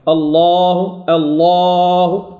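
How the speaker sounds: long, chanted «الله» with an evenly dark vowel; boca no mesmo nível. Shown as a demonstration. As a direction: sustain الله without thinning the long A. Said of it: "يبقى الفم في مستواه".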